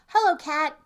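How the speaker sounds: high breathy whispered hello; whispered duck. Acted. Duck sneaks past the cat, whispered greeting.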